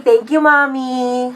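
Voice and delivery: put-on slow sugary little kid; a child thanking mommy sweetly; sweet kid thanks.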